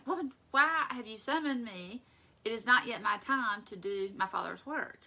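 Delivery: loud, lofty mock-solemn reply; mock formal Jesus. Jesus answering his mother, lofty and loud. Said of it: "he's around saying".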